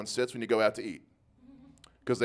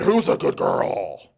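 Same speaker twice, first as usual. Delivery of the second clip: put-on baby-talk coo; 6 semitones lower, 4 dB louder, much slower than usual. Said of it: "he said".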